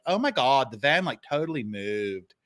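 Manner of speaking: mock Valley Girl voice; lightly imitated Valley Girl. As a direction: quote her as a Valley Girl. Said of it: "speak like Valley Girls".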